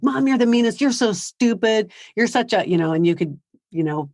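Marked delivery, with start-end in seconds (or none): 0.0-2.7 lightly voiced angry teen; a mild mock of the kid lashing out; teen mocked insulting mom, a little higher; bratty kid. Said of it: "I was just giving you an example of like".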